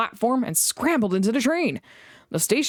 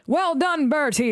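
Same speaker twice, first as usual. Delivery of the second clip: shouting; 8 semitones higher than usual. A narrator's reading. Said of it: "they shouted".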